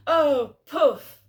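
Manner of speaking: high, loud mock-shocked "Oh, poof"; a hammed-up, outraged old mum; shocked gasping exclamation. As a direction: squeal it like mum scandalised on the phone. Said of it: "her going".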